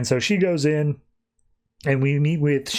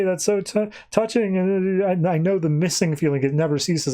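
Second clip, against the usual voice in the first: higher, hammed-up choked-up gushing; mock teary; 5 semitones higher than usual. Alien tearing up over lost grandmother, mock tearful. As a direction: play the alien welling up with mock tears. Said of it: "starts, like, tearing up".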